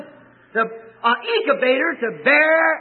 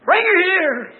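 firm command; 7 semitones higher, 5 dB louder, slower than usual. Retold or imitated. Preacher commands the ushers.

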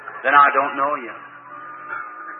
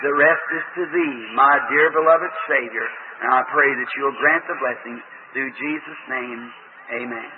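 prayer. Real, not acted. Preacher closing a prayer before the healing line, reverent. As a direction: pray it out, tender and humble.

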